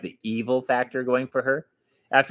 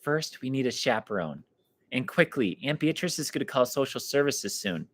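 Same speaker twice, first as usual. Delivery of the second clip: softer, hushed urgent words; whispering; 6 dB quieter than usual. Acted. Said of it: "She leaned closer to Dan and whispered".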